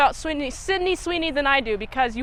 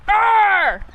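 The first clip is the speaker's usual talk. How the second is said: frustrated growl; 6 semitones higher, 4 dB louder than usual. Retold or imitated. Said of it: "it makes me go".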